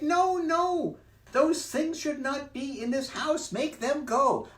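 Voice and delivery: very high, loud scared fish; fish's voice. Acted. Fish in the pot begging the children, high and loud. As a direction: panic at the intruders, high.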